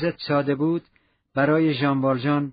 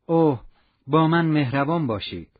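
tender plea. Acted. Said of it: "نشانهٔ نهایت مهربانی".

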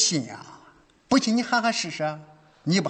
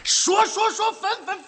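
repeated signal call; 13 semitones higher than usual. Acted.

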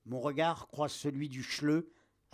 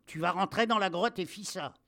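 raised, higher-pitched military order; yelling captain; 4 semitones higher, 5 dB louder than usual. A narrator's reading. Captain orders soldier into the cave, yelling. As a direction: yell the order at him. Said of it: "Le capitaine hurle".

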